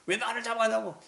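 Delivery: high, loud screaming as she is dragged off; dragged woman shrieks at the crowd, high and loud; screaming protest. Retold or imitated. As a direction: shriek it out, outraged. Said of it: "소리 지르고 막".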